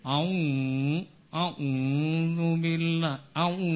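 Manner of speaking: put-on อะอู in a Phetchaburi Thai accent; Phetchaburi accent recitation. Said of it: "แต่ถ้ามาจากเพชร".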